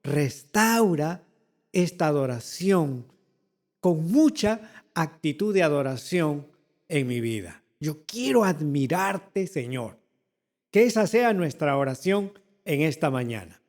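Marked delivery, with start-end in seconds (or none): 0.0-10.0 prayer. Shown as a demonstration. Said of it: "Hay que decirle al Señor".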